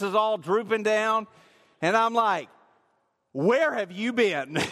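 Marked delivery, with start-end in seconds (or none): 3.3-4.6 mock angry demand. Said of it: "I'm really mad".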